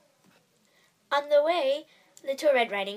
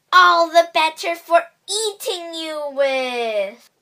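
menacing wolf; 6 semitones higher, 13 dB louder, slower than usual. A narrator's reading. Wolf reveals himself.

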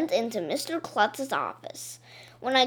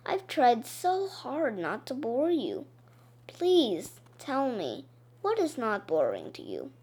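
quietly hurt, pleading to be told; gently wounded voice, softer; sad; 6 dB quieter than usual. Acted. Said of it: "she said sadly".

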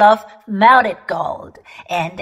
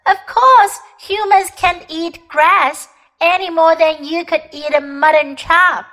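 put-on indignant girl; 5 semitones higher than usual. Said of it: "stamping her foot".

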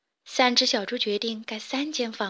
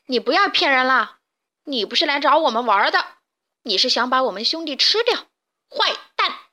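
indignant scolding; 2 semitones higher, 4 dB louder than usual. Acted. Pig scolding the wolf.

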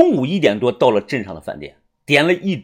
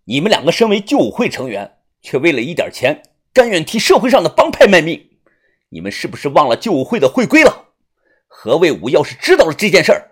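louder and higher as the threat builds; loud rebuke; 4 semitones higher, 4 dB louder than usual. Acted. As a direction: scold them, rising to a shout at the end. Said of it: "指着对方大声地说道".

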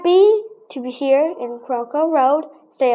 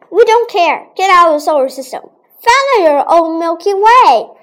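loud mock banishing; 3 semitones higher, 5 dB louder than usual. Planets banish Pluto loudly.

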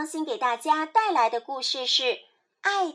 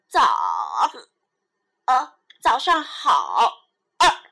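hiccup breaks the greeting; 4 dB louder, slower than usual. Acted. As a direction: hiccup mid-word. Zebra hiccups while greeting.

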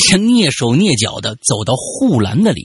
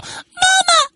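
put-on a shrill, much higher child's cry of terror; panicked child's scream. Child in the dark screams for mom in panic. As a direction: scream for mama like a frightened little kid. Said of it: "尖锐又显得惊慌失措的童声喊道".

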